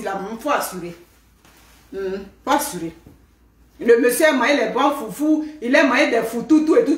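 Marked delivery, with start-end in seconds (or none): 0.0-2.9 low knowing aside. Acted.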